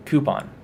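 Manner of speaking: "coupon" with a y-glide, KYOO-pon; one of two ways. Shown as a demonstration. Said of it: "I say it both ways".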